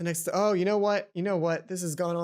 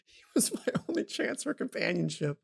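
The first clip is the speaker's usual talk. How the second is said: whispering. Acted. Secret confession of her feelings.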